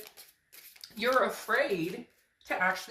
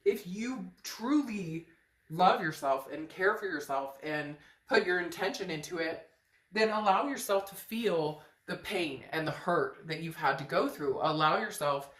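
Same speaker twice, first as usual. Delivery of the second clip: choked up; 3 semitones lower than usual. Real, not acted. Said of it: "I choked up there so hard".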